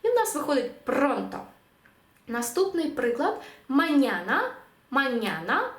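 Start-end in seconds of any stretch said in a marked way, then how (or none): 0.8-1.4 «пронто» with the beat on PRON; penultimate stress. Shown as a demonstration. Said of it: "ставимо наголос на попередній склад". 3.7-5.7 «маняна» modelled as ma-NYA-na; penultimate stress. Shown as a demonstration. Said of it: "ставимо наголос на попередній склад".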